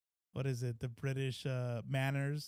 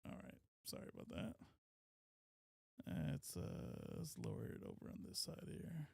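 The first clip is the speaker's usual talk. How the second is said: whispering; 11 semitones lower, 13 dB quieter, faster than usual. Real, not acted. Turning down loud clip.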